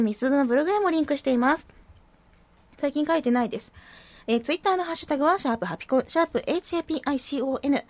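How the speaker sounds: hoarse and stuffy from a cold; nasal cold voice with rasp. Real, not acted. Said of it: "かすれ声と鼻声で".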